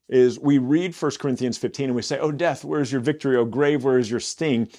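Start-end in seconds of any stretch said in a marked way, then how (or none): 2.2-4.7 mock triumphant boast. Shown as a demonstration. Preacher mocking how readers boast. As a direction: gloat over death like a victor. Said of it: "we kind of say it as, like, we're boasting".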